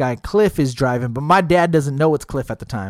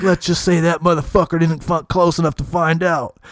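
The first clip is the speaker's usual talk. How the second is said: singsong smug boast. Retold or imitated. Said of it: "He's like".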